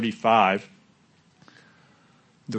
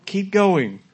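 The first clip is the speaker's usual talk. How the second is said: much higher, louder cheer; calling encouragement; 8 semitones higher, 5 dB louder, much slower than usual. Acted. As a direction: cheer them up the hill. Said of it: "And he says".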